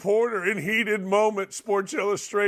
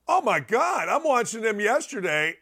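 ordinary talk, nothing marked

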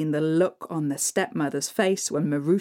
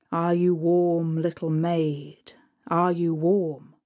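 a hint of a lower, slow old spirit; lightly voiced Father Frost; 3 semitones lower than usual. Father Frost tests Marusha in the dark, slow and low. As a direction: ask slowly like a wintry old man.

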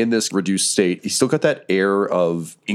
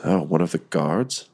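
dazed confusion; 3 semitones lower than usual. Acted. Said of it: "he's very confused".

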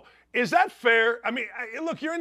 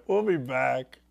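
usual speaking voice

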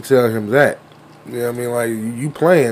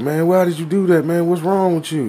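mock kid scolding; 6 semitones higher than usual. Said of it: "the other little nigga was like".

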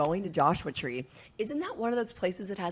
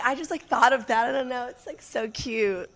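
imitating friend; 5 semitones higher, 4 dB louder than usual. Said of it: "what I thought you were about to be like".

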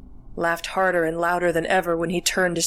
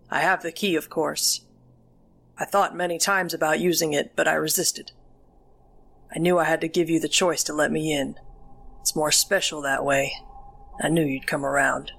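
creepy grandpa; 2 semitones lower than usual. Acted. Grandpa speaks to heroine.

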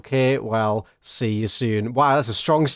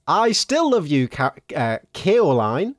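put-on town drunk; 3 semitones higher, slower than usual. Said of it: "he's been drinking a bit, and, um, now he's slurring his words".

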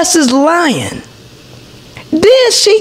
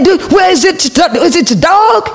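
mock yell. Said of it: "I said".

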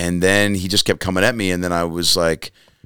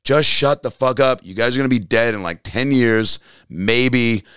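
mildly heated, higher retelling; retold lost cool; 4 semitones higher than usual. Comedian losing his cool at the audience, mild retold anger. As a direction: replay losing your temper, held in check. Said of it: "I lost my cool on stage".

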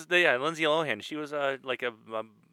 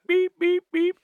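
imitated beep; 5 dB louder, slower than usual. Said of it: "everybody's just hearing beep".

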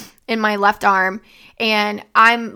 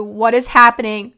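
a louder, urgent question; retold screaming; 5 dB louder than usual. Pleading with her seizing dad, in an urgent raised voice. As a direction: call it out urgently, at normal pitch. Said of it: "I was screaming at him so loudly".

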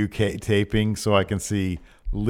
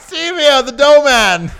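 high, loud barker; carnival barker; 13 semitones higher, 11 dB louder, slower than usual. Pretend. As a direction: present him grandly. Barker echoes.

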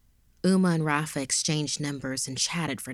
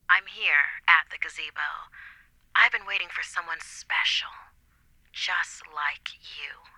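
sultry whisper. Acted. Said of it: "Uma responded".

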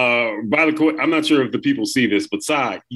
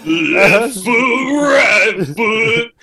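country ballad bit; 5 semitones higher, much slower than usual. Pretend. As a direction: belt it like a hammy ballad. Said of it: "Skeet McGraw".

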